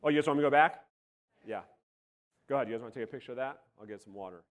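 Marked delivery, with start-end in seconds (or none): 2.7-4.4 voice going out. Real, not acted. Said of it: "'cause my voice is going out".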